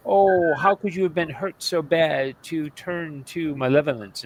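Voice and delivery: slow, mock-pitying imitation; fake condescending. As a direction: imitate patronizing concern for a villain, slowly. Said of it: "very fake condescending".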